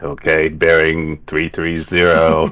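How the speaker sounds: lightly voiced calculating goblin; slow, measured reckoning, a hint of goblin; Priz. Goblin working out a long shot, slow mock calculation. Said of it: "calculating in his little goblin brain".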